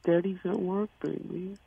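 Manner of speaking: lightly voiced baby talk. Boyfriend putting off girlfriend while at work, mild baby talk. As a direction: soothe her with a hint of baby voice. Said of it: "talk in my baby voice".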